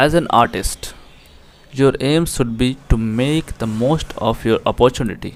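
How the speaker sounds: slow, careful reading aloud of the English line; slow text reading. Shown as a demonstration. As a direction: read each word out deliberately for the class. Reads English text aloud slowly. (धीमे, साफ़ अंग्रेज़ी पाठ-वाचन)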